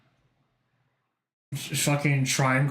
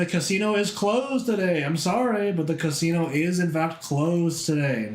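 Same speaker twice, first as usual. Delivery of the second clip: mock announcement; 4 semitones higher than usual. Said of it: "I'm saying it now, putting my foot down".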